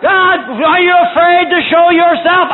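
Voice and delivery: preacher playing a defiant braggart; projected mock taunt; acted boastful challenge. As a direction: call God out before the crowd. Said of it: "to brag and to shout".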